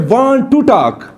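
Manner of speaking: teacher lays out want to talk slowly for class; slow careful want to talk. Shown as a demonstration. Want to talk धीरे. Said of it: "इसको हम किस तरह pronounce करेंगे".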